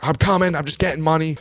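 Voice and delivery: high-pitched mock yell; retold yelling. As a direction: imitate calling out to a distant driver. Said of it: "she's, like, yelling at him".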